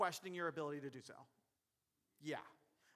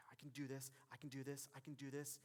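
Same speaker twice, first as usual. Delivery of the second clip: hushed, low pep talk under the breath; nervous self-whisper; 5 semitones lower, 9 dB quieter than usual. Acted. Referee psyching himself up before a call, nervous whisper. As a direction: whisper it quickly to steady yourself.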